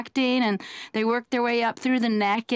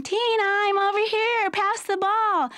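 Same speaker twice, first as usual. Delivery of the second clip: put-on girl on the court calling to Tina, in a high prissy voice; girly player calling; 9 semitones higher than usual. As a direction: play a dainty girl asking for a pass. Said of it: "You'd be in the middle of a game".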